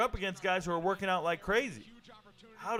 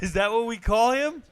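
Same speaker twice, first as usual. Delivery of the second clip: incredulous; 7 semitones higher, 6 dB louder than usual. Real, not acted. Reacts to an unexpected nickname.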